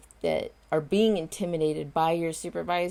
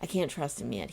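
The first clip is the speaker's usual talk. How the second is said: ordinary talk, nothing marked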